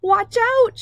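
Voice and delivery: very high, loud warning shout; big yell. Acted. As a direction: belt the warning at the marchers. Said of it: "she yells".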